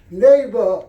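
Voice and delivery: loud, high call to a stranded neighbor; pilot calling out from above. Acted. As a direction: call down over the rotor noise. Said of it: "the pilot of the helicopter called out".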